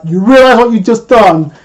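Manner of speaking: lightly imitated angry outburst; mock anger. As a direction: act out a touch of indignant anger. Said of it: "straight up anger".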